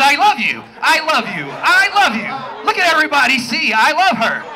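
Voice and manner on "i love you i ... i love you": mock lovey couple. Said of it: "They just sitting up here".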